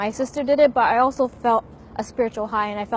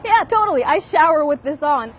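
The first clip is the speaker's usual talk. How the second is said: much higher, louder mock-sarcastic yes; sarcastic reply; 5 semitones higher, 5 dB louder than usual. Answering a silly question about showering, loud sarcastic high reply. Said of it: "I'm like".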